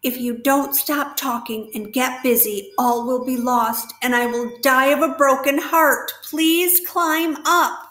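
Wilbur begs the rat in desperation. Acted. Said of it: "said Wilbur in desperation".

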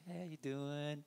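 sugary, put-on politeness; mock-sweet customer asking for service; fake polite. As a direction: smile through gritted irritation. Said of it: "put a smile on my face and go".

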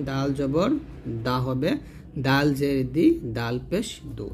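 "দাল জবর দা" with a light, open d; thin Dal. Shown as a demonstration. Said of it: "দাল হচ্ছে পাতলা হরফ". ("দাল" পাতলা করে)

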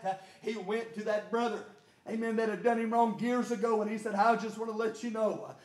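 rhythmic preaching cadence with gasped breaks; driven preaching. Real, not acted. Preacher to his church on seeing God, driven preaching. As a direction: preach it hard, punching out each phrase.

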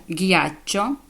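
hard g before "ячо" in "Г'ячо", the h dropped; silent H. Shown as a demonstration. Teacher showing learners the dropped h, hard g in "Г'ячо". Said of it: "ака опускається".

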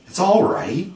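put-on boy announcing. A narrator's reading. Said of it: "John announced".

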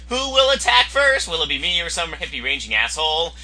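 normal talking voice

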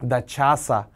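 차사 stressed on first syllable 차; 나 차사 with the weight on 차; front stress. Shown as a demonstration. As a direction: lean on 차 in 차사, full a. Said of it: "강세가 앞으-, 앞으로 갑니다".

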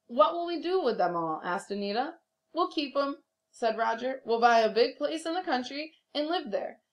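lively read-aloud storytelling voice; animated storybook reading for a class; story narration. Acted. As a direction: read it like a teacher sharing a picture book. Reads picture book aloud.

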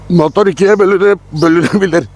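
on a bumpy road. Real, not acted. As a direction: voice shaken by the ride. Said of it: "Abi konuşamıyorum".

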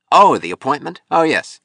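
high, loud mock recollection; drunken gaiety. A narrator's reading. Drunk sculptor asked about a missed appointment, swaggering gaiety. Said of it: "swaggering gaiety".

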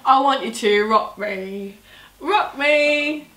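a hint of a slow lounge singer; Marcus Butler impression. Impression game, crooning a line slowly. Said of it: "Marcus Butler".

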